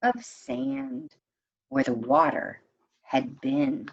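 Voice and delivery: story narration. A narrator's reading. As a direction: read the tale to the class, gently paced. Teacher reads a folk tale aloud.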